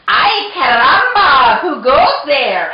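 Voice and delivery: loud, high, hammed-up Spanish accent; Spanish-accented challenge. A narrator's reading. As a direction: call out the challenge with Spanish flair. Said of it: "using his very best Spanish accent".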